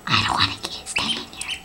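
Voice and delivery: deep, quiet grumble; reluctant duck. Acted. Voicing a duckling who won't stay in, low and reluctant. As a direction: mumble it low, as a sulky animal. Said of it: "He's like".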